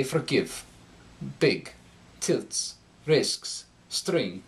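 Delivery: "forgive" with a dark Swedish short i; Scandinavian accent. Shown as a demonstration. Coach demonstrating the Swedish or Norwegian short i. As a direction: say "Big", "Tilts", "Risks", "String" with a Norwegian darkened i. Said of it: "when speaking with Swedish or Norwegian accent".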